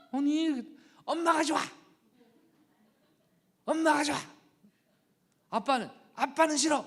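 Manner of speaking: put-on high, loud childish shouting; defiant child. Son rejecting his dad, defiant childish shouting. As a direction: yell it like a stubborn little boy.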